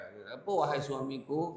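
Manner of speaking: soft loving wife calling her husband. Retold or imitated. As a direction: murmur the greeting tenderly. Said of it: "dia bergurau lah kan".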